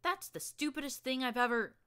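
high, loud rant cut short; angry yell. Acted. Glory rants at the narrator mid-quarrel, loud and high. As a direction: rant at her till you're cut off.

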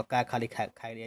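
mock halting piece-by-piece reading; wrong way demo. Shown as a demonstration. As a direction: show the clumsy way kids spell it out. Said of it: "ऐसे नहीं पढ़ना रहेगा".

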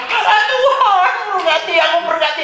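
very high-pitched imitation of crying out; mock yelling. Child yelling at father in prayer, mock wailing. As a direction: cry out high, without real volume. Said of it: "Nantinya teriak-teriak".

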